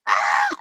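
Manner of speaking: high yelp of fright; mock scream of panic, way up high; startled scream. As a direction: shriek like the bug just lunged at you. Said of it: "And I was just like".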